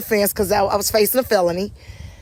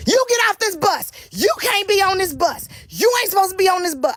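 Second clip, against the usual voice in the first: high, fast shrill-free mock of the driver's orders; mocking bus driver; 10 semitones higher than usual. Bus driver ordering the mother off the bus, high mock voice. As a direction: pitch it way up to mimic the driver barking orders.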